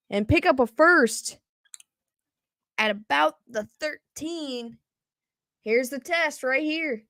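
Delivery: sportscaster following the snap; live play-by-play. Acted. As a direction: call the play as it unfolds. Live play-by-play call of a game.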